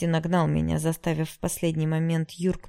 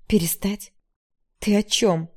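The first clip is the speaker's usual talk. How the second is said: a hissed then louder angry question; angry retort; 3 semitones higher, 6 dB louder, slower than usual. A narrator's reading. Yara angrily asking Ignat what he means, louder. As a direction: bristle at him. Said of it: "рассердилась я ещё сильнее".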